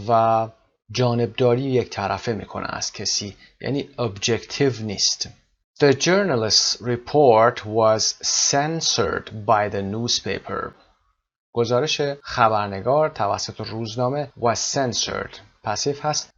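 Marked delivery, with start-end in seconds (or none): 5.8-10.7 slow, careful reading of an English example; English teacher's careful dictation pace; slow model reading. Shown as a demonstration. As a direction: read it out slowly and clearly for learners. Teacher reads model sentence slowly.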